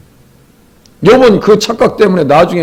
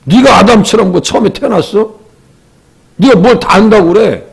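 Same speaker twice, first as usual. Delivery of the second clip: higher-pitched, mildly acted challenge; pointed mock reproach, pitched up; confrontational retort; 4 semitones higher than usual. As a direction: imitate a friend bluntly taking someone on. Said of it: "아주 직선적으로 막 대-, 들이댑니다".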